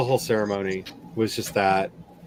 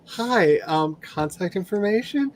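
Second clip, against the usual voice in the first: much higher, slow, sugary greeting; eager people collector; 8 semitones higher, slower than usual. Retold or imitated. People collectors greeting a newcomer, much higher and sweet. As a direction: ask sweetly for their details. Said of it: "we're just like".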